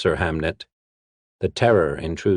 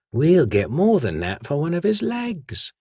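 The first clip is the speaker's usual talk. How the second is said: sly hissed threat from the shadows; 11 semitones higher than usual. Acted. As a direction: hiss the warning like a street thief. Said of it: "the whispering shadow said".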